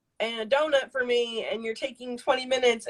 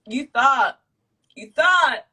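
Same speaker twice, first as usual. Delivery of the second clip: raised, building call-out, higher and louder; mock gotcha call; 4 semitones higher, 8 dB louder, much slower than usual. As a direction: catch someone red-handed, punching it louder each time. Acts out catching him at it.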